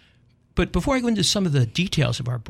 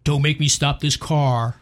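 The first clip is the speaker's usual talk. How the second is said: slow, drawn-out mock threat; a hint of a fed-up parent; empty parent threat; slower than usual. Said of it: "toothless threats".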